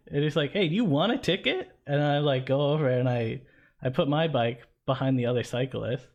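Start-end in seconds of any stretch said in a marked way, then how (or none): 0.5-1.7 higher, needling threat; threatening cop. Retold or imitated. Cyclist imitating the cop threatening a ticket, higher. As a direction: lean on him like a pushy cop.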